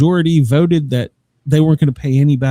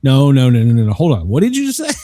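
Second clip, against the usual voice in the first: wife's stunned disbelief; 3 dB louder, faster than usual. Retold or imitated. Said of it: "And she's like".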